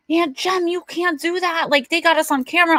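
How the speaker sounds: put-on high, fast panicky young voice; alarmed niece. Niece warns her aunt about the cameras, high and panicked. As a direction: squeal it out like a worried niece.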